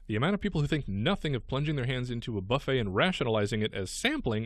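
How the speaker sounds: light, lively news-story read. Real, not acted. Radio host reading a gross news item to co-host, news read.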